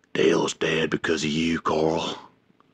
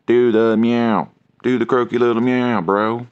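loud nagging; 3 semitones higher, 5 dB louder than usual. Real, not acted. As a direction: drag out the demand to annoy him. Nagging the cat to meow.

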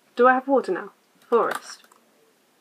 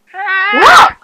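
high, loud startled "What?" then a big laugh; surprised; 13 semitones higher, 11 dB louder than usual. Real, not acted. Reacting to a surprise in the game, startled yelp then laughter. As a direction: caught off guard and bursting out laughing.

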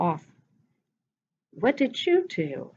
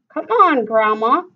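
anxiously; 3 semitones higher, 6 dB louder than usual. Acted.

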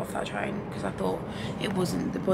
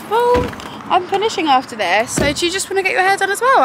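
hairdresser quote; 11 semitones higher, 12 dB louder, faster than usual. Retold or imitated. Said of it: "the girl was like".

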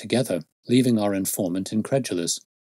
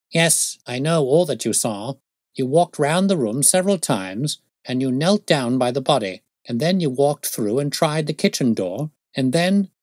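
slightly raised, assured detective voice; keen detective; 6 semitones higher, 4 dB louder than usual. Acted. Detective tells constable his own movements, lightly voiced confidence. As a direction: reel it off as a know-all sleuth, lightly voiced.

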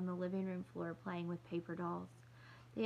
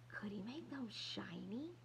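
slow, soft unvoiced question; tentative; 7 dB quieter, slower than usual. Little girl softly asking if shoes can be shiny. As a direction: ask it almost under the breath.

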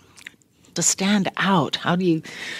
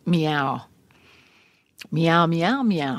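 cat meows; much slower than usual. Retold or imitated. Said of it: "I get the paper in front of me, and it's".

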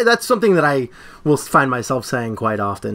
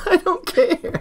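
deadpan echo; 13 semitones higher, slower than usual. Retold or imitated. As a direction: savour it back to him. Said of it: "Tommy Lee Jones says".

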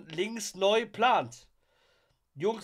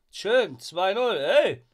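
excited; 3 semitones higher, 6 dB louder, much slower than usual. Real, not acted. Celebrating the goal again.

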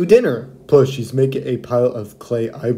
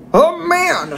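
put-on old lady voice; 14 semitones higher than usual. Old lady potter answers John.

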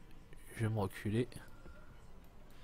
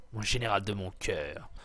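mock tender. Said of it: "T'as comment c'est pervers".

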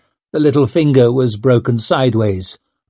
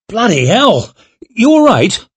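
much higher and louder, startled; alarmed concern; 10 semitones higher, 5 dB louder than usual. Acted. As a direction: rush to a friend who just fell. Duran alarmed at fall.

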